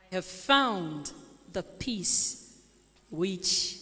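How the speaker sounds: slow, measured Bible reading; solemn scripture read in separate phrases. Acted. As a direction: read the parable aloud with deliberate pauses. Reads scripture aloud.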